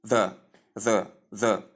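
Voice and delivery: "the" as a lone voiced th, low; isolated ending sound. Shown as a demonstration. Teacher isolating the last sound, "the" as voiced th. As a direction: say "the" as a buzzing "dhuh", spaced out. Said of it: "the last sound".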